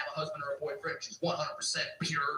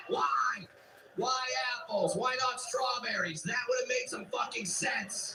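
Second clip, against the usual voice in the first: raised excited rant, pitch higher; 4 semitones higher than usual. Real, not acted. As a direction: rant it out, building energy. Ranting about strawberries.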